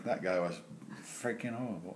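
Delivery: understated mock British put-down; British accent. Voicing Australians judging his impression, mock British accent. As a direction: slip into a quiet British accent. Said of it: "I don't know why I went British there".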